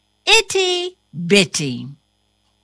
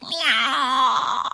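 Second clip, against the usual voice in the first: cat meow; 4 semitones higher than usual. Acted. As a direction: wail it like a hungry cat. Cat character meows.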